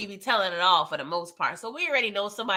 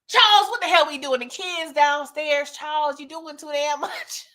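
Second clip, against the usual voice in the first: exasperated scolding; 4 semitones higher than usual. Retold or imitated. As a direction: call him out, half shocked and half annoyed. Wife scolding husband, kids downstairs.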